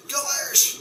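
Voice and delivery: root for the Irish; mock Saint Patrick's cheer.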